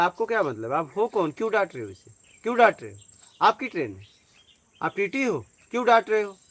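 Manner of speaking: indignant retold rebuke, punching the questions; retold confrontation. Speaker confronting men scolding a ticketless boy, indignant. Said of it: "डांटने लगे".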